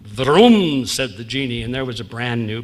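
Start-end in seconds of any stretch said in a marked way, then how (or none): 0.0-0.9 genie's magic vroom. Acted. Genie grants bicycle.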